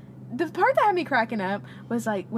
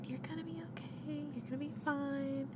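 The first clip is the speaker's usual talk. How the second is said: gentle mom; 5 semitones higher, 13 dB quieter than usual. Retold or imitated. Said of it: "I remember she said".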